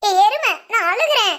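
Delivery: mock crying that sounds like laughter; laughing while crying. Brother says stop laughing, she protests through giggly tears. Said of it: "முத அந்த சிரிப்பை நிப்பாட்டு".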